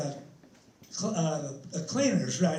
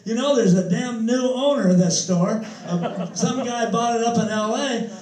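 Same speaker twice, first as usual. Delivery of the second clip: mild mock grumbling, a bit louder; lightly acted indignation; retold cussing; 3 semitones higher, 5 dB louder than usual. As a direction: imitate a griping, uptight tenant. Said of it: "he was cussing around".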